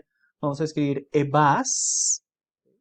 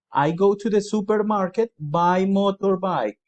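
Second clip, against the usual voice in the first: slow model answer; 4 semitones higher, 4 dB louder, slower than usual. Shown as a demonstration. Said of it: "Alguien me preguntó".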